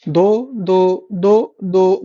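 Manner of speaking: slow memory-aid drill on दो; slow drilled count. Shown as a demonstration. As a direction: stretch दो, दो out very slowly. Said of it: "दो से याद करो".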